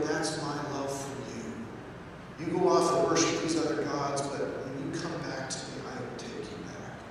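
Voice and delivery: tender God voice. Retold or imitated. God speaking to Israel, soft and tender. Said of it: "God is saying to Israel".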